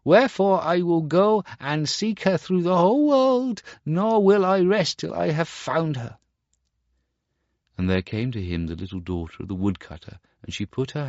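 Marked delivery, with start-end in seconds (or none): 0.0-6.2 much higher, louder lament; weeping remorse. Acted. Star Child repents on the grass, weeping. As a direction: grieve for your sin. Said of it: "flung himself down ... and wept".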